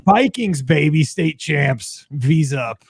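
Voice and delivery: loud, slow fan cheer; team cheer. Acted. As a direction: chant it like a proud fan.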